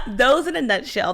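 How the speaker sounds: giggling while recovering; laughing. Real, not acted. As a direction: restart the phrase through a laugh. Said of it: "whew, I'm out of breath".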